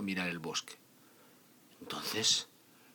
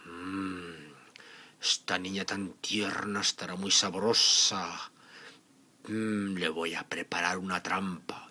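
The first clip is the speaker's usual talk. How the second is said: scheming wolf; slower than usual. Acted. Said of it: "el lobo pensó para sus adentros".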